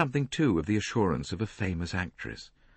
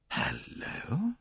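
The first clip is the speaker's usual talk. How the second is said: excited; 9 semitones higher, 7 dB quieter than usual. A narrator's reading. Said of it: "his voice suddenly excited".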